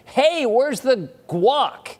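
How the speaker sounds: drawn-out, hammed-up high yell; mock scream. Rude guest screaming at host for guac, hammed-up yell. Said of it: "Do you scream at that person".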